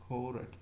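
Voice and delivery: "court" read as "ko-ret", every letter sounded; Urdu-spelling pronunciation. Shown as a demonstration. Lecturer explaining the Urdu spelling, two-syllable "court". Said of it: "that's why people say it".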